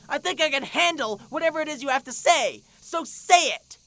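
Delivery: high, loud exasperated rant; fed-up outburst. Acted. Fed-up rant demanding the truth.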